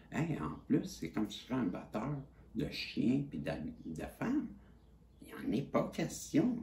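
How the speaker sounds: high-pitched, outraged protest; indignant outrage. Real, not acted. Insisting to the audience he is no abuser, high and outraged. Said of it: "je suis fâché".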